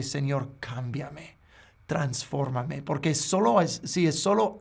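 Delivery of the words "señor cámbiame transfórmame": softer, slow "Señor, cámbiame, transfórmame", surrendering; humble prayer for change. Retold or imitated. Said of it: "en vez de". ("Señor, cámbiame, transfórmame" suave, lento y humilde)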